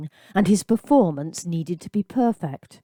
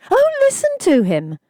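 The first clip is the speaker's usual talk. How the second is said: high, loud leering jeer; mock him with a leer; woman leering at the schoolboy; leering taunt; 5 dB louder than usual. A narrator's reading. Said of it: "leered at him".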